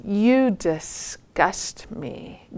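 drawn-out, deliberate put-down; slow disdain. Retold or imitated. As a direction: stretch out the contempt, mildly acted. Eldest brother scorns the troll.

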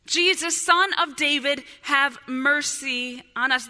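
loud preacher's acted plea; crying out. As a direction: call out to be heard, stretching the last words. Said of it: "they begin to cry out".

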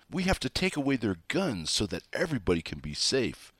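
lightly hammed-up plea for safety; mock frantic pleading. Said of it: "this frantic screaming about".

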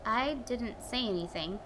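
hushed whisper. Acted. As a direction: whisper back nervously. Whispered reply.

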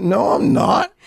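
high-pitched mock defiant yell; retold screaming match. Husband refuses wife's order to work, mock yelling. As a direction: imitate arguing back, voice jumping up. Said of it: "start screaming at me".

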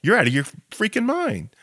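mock the idea as absurd; exasperated scoff. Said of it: "Most Israelis are like".

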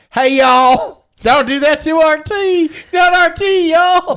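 high, loud Southern holler; mock Southern drawl, hollered high; Southern-accented Redcoats. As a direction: shout it like an outraged Southern Redcoat. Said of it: "think about the Redcoats being like".

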